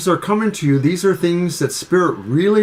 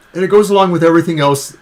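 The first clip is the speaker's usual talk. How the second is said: burping; 5 dB louder, much faster than usual. Real, not acted. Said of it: "I'm burping a little bit on the coffee".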